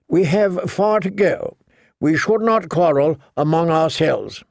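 put-on nervous young knight. Sir Cleos pleads.

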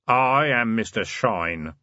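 slow, grave self-introduction; deep voice. Acted. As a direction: announce the name slowly and gravely. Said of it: "a deep voice from the doorway said".

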